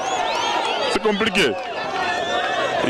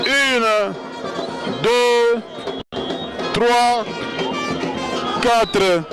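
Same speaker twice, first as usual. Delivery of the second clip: slow drawn-out count to seven; boxing ring announcer; 3 semitones higher, much slower than usual. Acted. Second count-out of wrestler.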